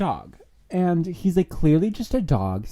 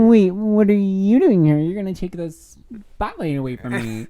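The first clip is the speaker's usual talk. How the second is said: high, loud, accusing rival; indignant shock; 7 semitones higher, 7 dB louder than usual. Acted. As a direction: hurl it as a jealous accusation. Rival accusing, acted quote.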